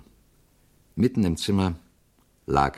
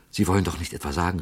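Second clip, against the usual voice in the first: quick, startled exclamation; astonished; faster than usual. Acted. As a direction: rush it out in disbelief. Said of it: "rief der Schauspieler erstaunt".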